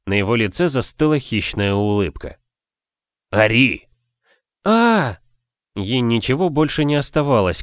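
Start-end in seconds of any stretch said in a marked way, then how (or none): 3.3-3.9 barked order, louder; command shout. A narrator's reading. Husband orders his wife to cry out, a loud barked command. 4.6-5.2 piercing scream pitched much higher; loud scream. A narrator's reading. Wife screams as her husband demands, high and loud. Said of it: "как громко закричать".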